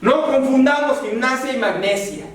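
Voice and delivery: un "¡Eh, eh!" agudo de reprimenda; regaña con celo, medio en serio; regaño disgustado. Retold or imitated. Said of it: "sí disgustado les digo". (pastor que regaña a la iglesia, disgustado)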